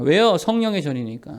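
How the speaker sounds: ordinary talk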